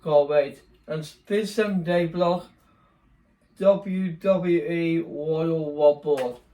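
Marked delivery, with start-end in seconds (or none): 3.6-6.4 slow, drawn-out ring announcer call. Pretend. Vlogger announces the Royal Rumble video in a slow, drawn-out announcer voice. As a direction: stretch it out like a wrestling announcer.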